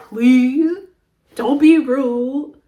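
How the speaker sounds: playful put-on British accent; mock-British accent, drawn out. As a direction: plead in a fake British accent. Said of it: "If I wanna speak in a British accent".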